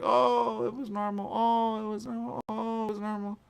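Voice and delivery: high, loud mock dismissal; high mock "it was normal". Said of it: "people are gonna be like".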